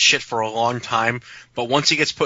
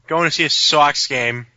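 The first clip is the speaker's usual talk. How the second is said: mock Boston accent; 2 semitones higher than usual. Mocking Boston accent as sexy.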